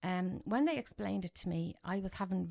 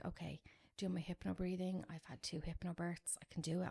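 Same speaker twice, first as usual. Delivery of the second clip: soft hushed inner voice, steadying herself; whispered self-calming; 6 dB quieter than usual. Retold or imitated. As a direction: murmur it to stay calm through pain. Calming herself during painful procedure.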